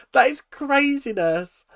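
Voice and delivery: stunned, drawn-out exclamation; emphatic disbelief. Real, not acted. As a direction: lean hard on "That" in disbelief. Repeats the phrase more emphatically.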